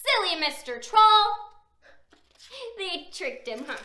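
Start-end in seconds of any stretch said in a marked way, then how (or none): 0.0-1.5 mocking laughter. A narrator's reading. Little Billy laughing at the tricked troll, gleeful taunt. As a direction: laugh out loud at the silly troll.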